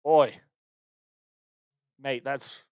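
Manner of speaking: lightly put-on British accent. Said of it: "That was mostly British".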